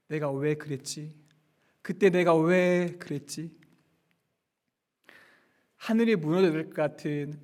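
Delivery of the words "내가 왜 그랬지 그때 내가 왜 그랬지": Peter asking himself in regret, hushed and slow; regretful self-questioning. Acted. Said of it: "후회하고 있습니다".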